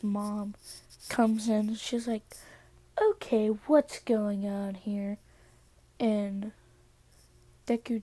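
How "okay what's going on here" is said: slow, drawn-out questioning; stern questioning. Acted. Mother walks in on the sleeping couple, stern and slow. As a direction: stretch the words out, taking in the scene.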